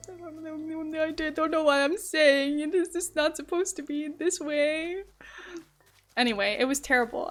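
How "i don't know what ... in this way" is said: mock exasperated. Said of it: "and I was like".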